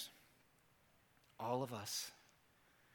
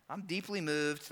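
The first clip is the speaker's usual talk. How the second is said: "I'm deeply moved" said flat and softer; bland, vanilla reading; 3 semitones lower, 5 dB quieter than usual. Shown as a demonstration. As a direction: read it as if it means nothing much. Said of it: "Because they sound vanilla".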